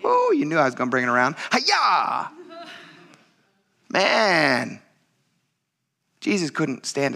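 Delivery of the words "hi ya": mock karate shout.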